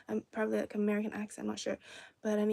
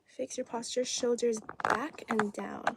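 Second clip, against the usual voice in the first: coaching cue. Real, not acted. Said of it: "let me just remind you to".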